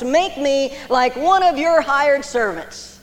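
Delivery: slow, humble plea of a repentant son. Retold or imitated. Preacher voicing the prodigal son's humble plea to his father. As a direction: ask slowly and humbly, like a beggar.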